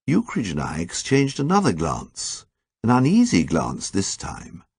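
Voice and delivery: usual speaking voice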